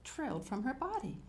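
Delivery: measured picture-book reading; story narration. A narrator's reading. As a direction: read to young children, unhurried at first. Reads picture book aloud.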